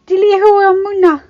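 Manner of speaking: high, full-force battle cry; loud, high rider's command; shouted command. Acted. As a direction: shout orders to your dragon. Rider commands his dragon into battle.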